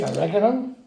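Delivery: oregano with an American accent, slightly scouse; North American accent. Shown as a demonstration. The speaker showing the cook his Yank way, American accent. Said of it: "That's my North American accent".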